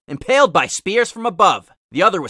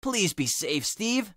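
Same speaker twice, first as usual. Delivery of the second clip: much softer, hushed plea; quiet prayer; 9 dB quieter, slower than usual. Acted. Tails praying alone for Steve, soft hushed prayer. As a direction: pray it under your breath. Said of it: "bowed his head and prayed".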